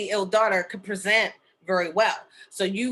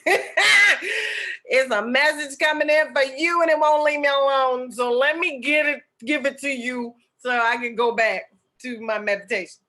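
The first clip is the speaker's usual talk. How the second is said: laughing exasperation; 7 semitones higher, 6 dB louder than usual. Retold or imitated. Texting person, messages won't stop.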